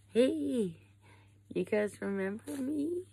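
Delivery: put-on high, bright call to old friends; excited greeting. Woman greeting chimps she rescued, excited high call. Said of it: "She was like".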